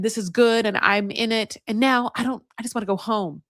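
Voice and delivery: wound-up retelling of her letdown; upset. Retold or imitated. Woman telling her date she wants home, upset. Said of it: "both of them are so upset, so angry".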